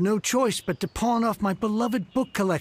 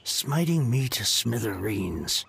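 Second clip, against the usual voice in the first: slow, heavy, woeful groan of a line; despairing lament; 7 semitones lower, slower than usual. Acted. Ruined book collector bemoaning his fate, slow and despairing. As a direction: lament to the heavens, dragging it out.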